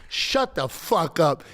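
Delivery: slow, deliberate put-down, each word spaced; drawn-out dismissal, not shouted; retold slow retort. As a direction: imitate a kid's unhurried comeback. Same retort told again.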